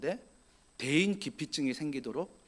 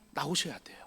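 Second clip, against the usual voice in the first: softer whispered echo of 나오셔야 돼요; 6 dB quieter than usual. Real, not acted. Preacher urging the congregation echoes himself in a whisper.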